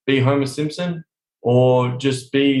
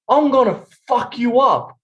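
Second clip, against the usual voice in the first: menacing growl; 7 semitones higher, slower than usual. Retold or imitated. Slamming date on table.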